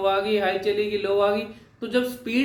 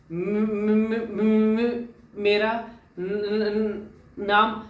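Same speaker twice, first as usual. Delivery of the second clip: stuck on first sounds "म" and "न" of "मेरा नाम", repeated before each word; demonstrated stammer on "मेरा नाम"; stammering blockage; much slower than usual. Shown as a demonstration. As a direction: push hard on "म" and "न", blocked before the word gets out. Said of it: "stammering में ये blockage क्यों आती है".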